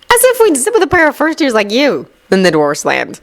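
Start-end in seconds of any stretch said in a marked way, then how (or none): 0.1-2.1 harsh. A narrator's reading. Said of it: "gave a harsh reply".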